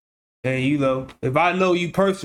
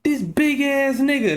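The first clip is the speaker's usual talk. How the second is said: much higher, slow amazed cry; stunned outburst; 10 semitones higher, slower than usual. Real, not acted. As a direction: drag it out in disbelief. Reacting to man on camera.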